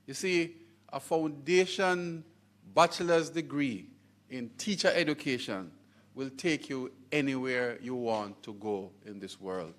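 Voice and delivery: deliberate, measured phrases with pauses between; emphatic point. Real, not acted. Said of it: "let me emphasize this a bit".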